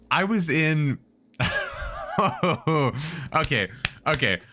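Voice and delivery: high, loud and rushed; telling it while still rattled; frantic retelling. Real, not acted.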